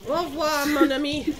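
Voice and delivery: loud mock French farewell; hammy French goodbye; French accent.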